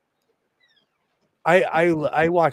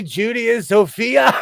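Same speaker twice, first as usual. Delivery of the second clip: excited call; 7 semitones higher, 4 dB louder than usual. Real, not acted. Calling out names.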